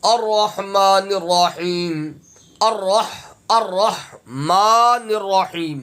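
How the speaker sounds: slow, measured tajweed recitation; Quran recitation. Shown as a demonstration. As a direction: recite it slowly, drawing out the long vowels. Recites verse slowly, syllable by syllable. (ٹھہر ٹھہر کر تجوید سے تلاوت)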